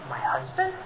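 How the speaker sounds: surprised disbelief; astonished wife. Acted.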